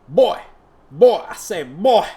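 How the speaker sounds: booming call at the door; bellowing boy. Acted. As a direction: shout for the boy from outside the door.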